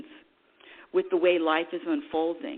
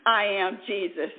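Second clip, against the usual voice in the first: laughing. Retold or imitated. Laughing at own old claim.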